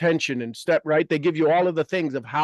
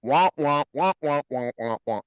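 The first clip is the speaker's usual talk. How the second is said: mumbled wah-wah noise, falling away; Charlie Brown's teacher; 4 semitones lower than usual. Retold or imitated. Tuning out complaining guests, a lightly imitated wah-wah drone. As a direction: drone it like a muffled trombone. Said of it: "Charlie Brown's teacher".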